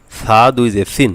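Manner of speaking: Arabic th in সা, সিন; tongue-tip Tha. Shown as a demonstration. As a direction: spell সা দুই জের সিন slowly, lisped th for the s. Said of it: "জিহ্বার আগা দিয়ে".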